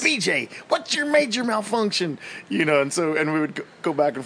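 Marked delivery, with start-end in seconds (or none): 0.0-2.2 drill sergeant voice. Retold or imitated. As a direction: chew him out like a drill instructor. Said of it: "That's what Steve would call me".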